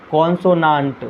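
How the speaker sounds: कॉन्सोनेंट ending in an open "-naant"; alternative pronunciation. Shown as a demonstration. Teacher showing students another possible reading, alternative pronunciation. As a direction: say कॉन्सोनेंट with a long "aa" in the last syllable. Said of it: "क्या पढ़ सकते हैं".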